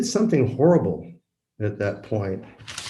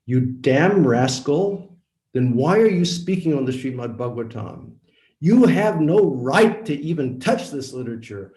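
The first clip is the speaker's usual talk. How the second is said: retold furious scolding, louder and higher; angry rebuke; 4 semitones higher, 4 dB louder than usual. Preacher retelling how he scolded the lecturer, angry shout. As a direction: tear into the fake preacher as you retell it. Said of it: "cool down, cool down".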